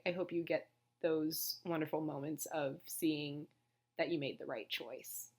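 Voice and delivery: losing my voice, worn thin; hoarse voice. Real, not acted. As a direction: voice starting to go hoarse. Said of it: "I am actually already losing my voice".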